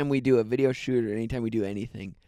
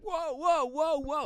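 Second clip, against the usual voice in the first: game show host; 11 semitones higher, slower than usual. Retold or imitated. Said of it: "always so crazy".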